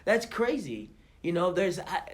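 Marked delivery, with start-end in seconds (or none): 0.0-0.9 shocked surprise. Retold or imitated. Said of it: "I was like".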